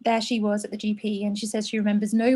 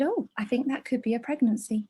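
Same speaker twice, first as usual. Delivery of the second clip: casual, unconcerned clinician's remark; matter-of-fact; 5 dB quieter than usual. Retold or imitated. Clinician to eighteen-year-old patient, matter-of-fact. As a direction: imitate an offhand medical verdict. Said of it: "she was so matter of fact".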